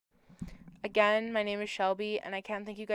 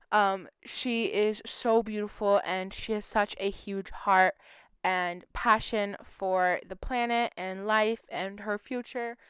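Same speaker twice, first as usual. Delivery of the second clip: slow, emotional and close to tears; choked up. Real, not acted. Vlogger choked up describing the missing woman, slow and emotional. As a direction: hold back tears while praising her. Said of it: "I don't know why I'm getting so emotional".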